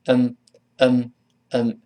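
"嗯" as the weak "I'm"; reduced schwa. Shown as a demonstration. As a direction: hum it as a tiny neutral vowel. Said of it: "也变成了嗯了呢". (弱化成"嗯")

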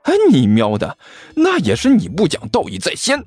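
rising, forceful comeback; indignant retort climbing in pitch; defiant roar. Acted. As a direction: yell back without giving ground. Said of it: "齐健毫不示弱地吼了回去".

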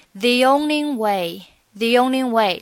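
"the only" with the y glide, slow; linked the only. Shown as a demonstration. Teacher linking "the only way", slowly. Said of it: "这里的T H E，我们读成the".

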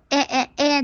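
哎 repeated as an open eh sound; vowel hint. Shown as a demonstration. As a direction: repeat 哎 as a hint toward English short a. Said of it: "哎的那种感觉". (连着示范“哎”的口感)

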